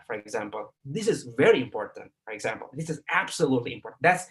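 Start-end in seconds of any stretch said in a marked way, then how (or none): 0.8-2.1 "very" lifted out of "This is very important"; emphatic "very", the rest left lighter; stress on VERY. Shown as a demonstration. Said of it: "the stress". 2.7-4.0 "absolutely" picked out with firm emphasis; quick sentence with emphatic "absolutely"; stress on ABSOLUTELY. Shown as a demonstration. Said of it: "the stress".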